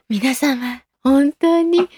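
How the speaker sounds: halting, hammed-up tearful thanks; mock tearful speech. Idol rehearsing a release-day thank-you speech, mock tearful. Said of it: "発売日には号泣しながら".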